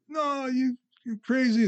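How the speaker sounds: high, scoffing retort; a hint of an outraged crowd; mocking crowd. Popular crowd rejecting Jesus.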